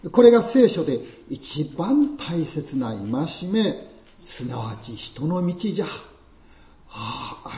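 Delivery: lightly voiced haughty old priest; pompous old priest. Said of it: "我が輩は祭司である".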